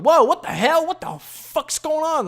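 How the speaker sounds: high, loud mock panic; high-pitched, stretched-out alarm; retold freak-out. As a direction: act out freaking out, voice shooting up. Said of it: "I'm freaking out".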